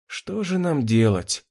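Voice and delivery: slow, sighing helpless question. Acted. Anne at a loss what to do, slow sigh. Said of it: "вздохнула Энн".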